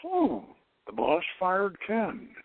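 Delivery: slow, unbothered, stating a fact; detached calm. Retold or imitated. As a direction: say it as if it happened to someone else. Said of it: "he's gotten beyond his personal feelings".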